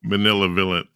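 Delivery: "Malevolent" slurred as muh-NIL-uh-vuh-lent; "Malevolent" garbled through a laugh; laughing mispronunciation. Real, not acted. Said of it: "I can never say the word".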